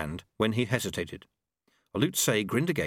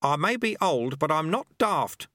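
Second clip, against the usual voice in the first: mild shout; 6 semitones higher than usual. A narrator's reading. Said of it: "Lutze shouted".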